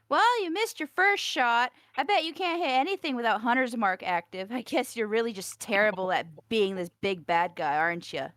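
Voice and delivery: big, loud mocking taunt; taunting mockery. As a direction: heckle the villain at full volume. Casts Vicious Mockery, taunting the enemy.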